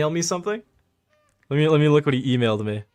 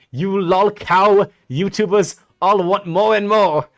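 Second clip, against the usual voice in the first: mock imitation; 6 semitones higher, 7 dB louder, slower than usual. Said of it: "throwing tomatoes at you".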